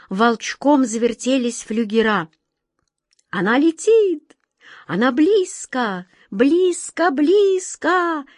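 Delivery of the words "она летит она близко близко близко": high, loud alarm, rising on близко; alarmed cry. A narrator's reading. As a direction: sound the alarm, urgent. Whirlwind alarms at approach.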